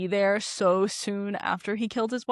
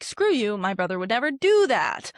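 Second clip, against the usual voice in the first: indignant; 5 dB louder than usual. Retold or imitated. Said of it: "is like".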